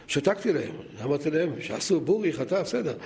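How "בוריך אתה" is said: "בורי חטא" with an "oo-ee" vowel, "burikh ata"; Ashkenazi pronunciation. Retold or imitated. Father quoting his children's cheder blessing, Ashkenazi pronunciation. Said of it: "תעשו מבטא שלנו".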